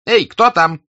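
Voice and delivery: loud, high call to the door. A narrator's reading. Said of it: "обратился он к двери".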